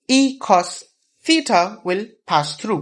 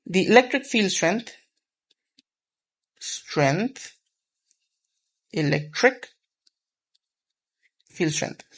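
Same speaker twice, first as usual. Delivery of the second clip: "electric field strength" repeated word by word with long pauses, softer each time; repeating for emphasis; 3 dB quieter, slower than usual. Shown as a demonstration. Teacher drilling the term "electric field strength" word by word. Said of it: "I'm emphasizing that word".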